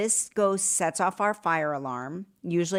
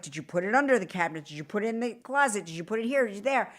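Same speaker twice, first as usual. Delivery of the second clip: rapid-fire questioning; much faster than usual. Retold or imitated. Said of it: "And Mark's like".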